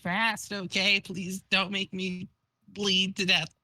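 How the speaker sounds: halting, lightly acted dying plea; slowed, broken last request; Vriska dying. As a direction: plead weakly, pausing between phrases. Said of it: "I need to do a dying Vriska voice".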